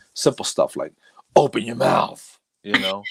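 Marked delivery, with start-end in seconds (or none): 1.4-2.4 rough, aggressive voice. Retelling simple things said at work after losing voice: imitating a rough aggressive voice. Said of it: "very aggressive 'cause it, it was real, real rough".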